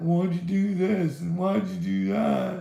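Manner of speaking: put-on upset whining. Mocking Dagburn's complaints: imitating Dagburn upset. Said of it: "he gets upset".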